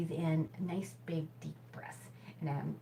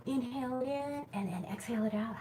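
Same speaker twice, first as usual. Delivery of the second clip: laughing; 6 semitones higher than usual. Shown as a demonstration. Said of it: "with a big hearty laugh".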